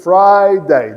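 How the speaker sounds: Friday as two clear beats, FRI-DAY; two-syllable Friday. Shown as a demonstration. Teacher reminding of two syllables, clear Friday demo. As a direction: sound out both halves of Friday. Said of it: "Duas sílabas".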